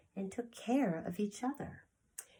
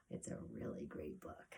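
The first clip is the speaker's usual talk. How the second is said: whisper; 13 semitones lower, 11 dB quieter than usual. Real, not acted. Teacher hushed about the book.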